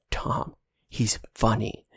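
lightly voiced, slow, eager brother on the phone; a hint of Caleb bursting with news; ecstatic Caleb. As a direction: brother calling Tom to rave about Jake, mildly excited. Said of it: "Caleb, extremely ecstatic".

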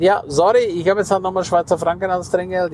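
lightly voiced sheepish customer; mock apology. He replies to the employee.

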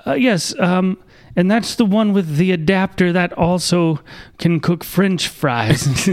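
high, slowing put-on rep voice; string out a silly sales pitch; mock salesman. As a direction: operator bluffing about the adapter to the caller. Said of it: "And we'd be like".

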